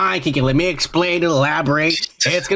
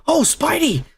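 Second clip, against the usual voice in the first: udawane zaskoczenie; 10 semitones higher than usual. Retold or imitated. Voicing Deadpool caught by Spider-Man.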